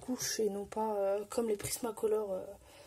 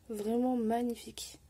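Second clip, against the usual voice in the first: ordinary talk, nothing marked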